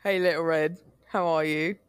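distant voice, like through a wall; from another room. Pretend. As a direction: call out from the next room. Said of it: "hear his voice in the other room".

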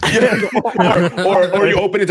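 laughing while talking; giggling through the words. Real, not acted. Laughing at the joke.

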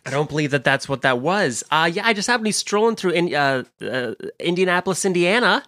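lightly voiced bad celebrity impression; Jack Black. Star telling hosts he was strolling through, lightly impersonated. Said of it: "was that Jack Black in the hallway".

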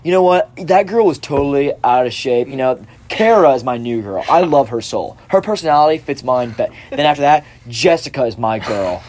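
hammed-up fickle bro; lightly voiced frat guy moving on; guy on the show switching girls; mock Chad. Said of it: "he's like".

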